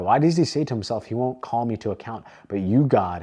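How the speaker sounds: emphatic psalm reading, key words punched; measured, declaiming Bible reading; scripture reading. Acted. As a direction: read the psalm aloud with force on each opening phrase. Reads Psalm aloud with emphasis.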